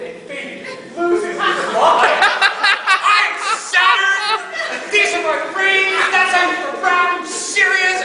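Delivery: high shrieking laughter, words squeezed out; can barely get the words out for laughing; mocking Fabian through helpless laughter; laughing hard. Real, not acted. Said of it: "lost his chicken".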